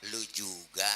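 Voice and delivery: low, unheated comeback; calm reply. Acted. Prophet returning the curse without anger, calm reply. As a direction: hand it back without heat. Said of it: "Jadi nggak usah ngegas".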